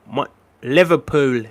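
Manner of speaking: Liverpool in a slow Scouse accent. Shown as a demonstration. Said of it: "I do a pretty good Scouse accent".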